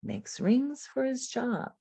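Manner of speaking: slow, phrase-by-phrase model reading; phrased reading practice. Shown as a demonstration. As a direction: read it slowly in swinging phrases. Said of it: "I might use these pencil swings".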